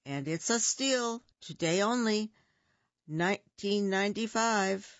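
a hint of a pitchy TV salesman; fast-talking salesman. Fox pitching the egg to Bear, mild salesman voice. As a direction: sell it like a late-night ad deal. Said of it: "That fast-talking fox".

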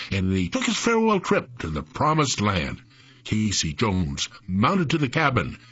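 song lyrics spoken in rhythm; rhythmic ballad recitation. Acted. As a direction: recite the verses like a rollicking railroad ballad. Recites railroad song verses.

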